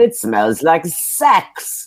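put-on slow Austrian accent. Retelling Wolfgang Puck's answer to Dave about the truffle's smell, in Wolfgang Puck's Austrian accent. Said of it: "in his Austrian accent".

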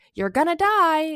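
high, squeaky little cartoon character voice. Explaining a coping trick, the speaker voices an intrusive thought as squeaky SpongeBob. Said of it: "like a squeaky voice".

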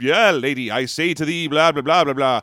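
put-on very old-timey, archaic New England accent. Describing characters talking over a scene's soundtrack: old New England accent. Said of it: "very old New England accents".

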